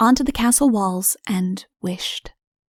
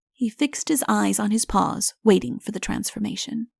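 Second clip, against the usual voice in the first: ordinary delivery, nothing marked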